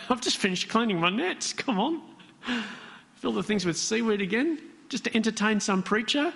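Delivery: sarcastic, grudging fisherman brushing off the preacher; grudging sarcasm. Shown as a demonstration. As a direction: roll your eyes at the preacher's idea. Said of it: "is that the kind of tone?".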